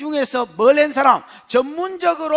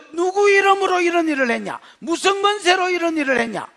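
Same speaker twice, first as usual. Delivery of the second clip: higher, contemptuous questioning; accusing tone; 5 semitones higher than usual. Acted. Council members interrogating apostles as if guilty, contemptuous. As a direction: treat them like criminals. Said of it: "죄나 지은 것처럼".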